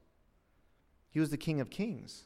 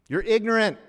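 loud, high jeering insult; accusing; 7 semitones higher, 9 dB louder than usual. Acted. Opponents labelling someone who speaks the truth, loud and accusing. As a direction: hurl the label at the listener. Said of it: "you're gonna start hearing their words".

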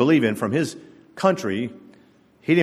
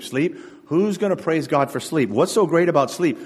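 higher-pitched, dismissive questioning; mock disbelief, pitched up; incredulous scoffing; 4 semitones higher than usual. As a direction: question it like an unimpressed doubter. Voices a scoffing doubter.

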